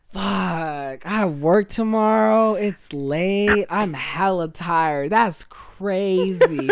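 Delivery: slow, drawn-out mock yawn-talk; fake tired hint. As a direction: lay it on thick, slow and sleepy. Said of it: "my stupid ass goes".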